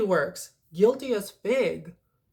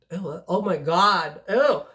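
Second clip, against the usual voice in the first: grossed out; 6 dB louder than usual. Real, not acted. Reviewer grossed out by her own saying, squealing ew. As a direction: recoil at your own words.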